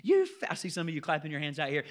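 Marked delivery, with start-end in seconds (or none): 0.0-0.5 much higher, slow cheering yell; family cheering the boy's failure, shouting; celebrating shout. Retold or imitated. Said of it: "They start screaming and clapping".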